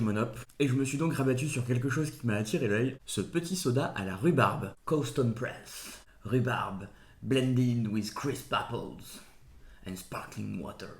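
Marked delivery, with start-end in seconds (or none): 4.8-10.9 slow, showy English accent from a French speaker; drawn-out attempt at an English accent; super English accent. Shown as a demonstration. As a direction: read the label slowly in careful English. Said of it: "avec mon super accent anglais".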